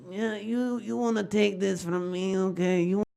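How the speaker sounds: put-on high, menacing Eastern European mobster accent; Eastern European mob boss. Hedgehog mob boss threatens a rival in Eastern European accent. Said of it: "above average Eastern European accent".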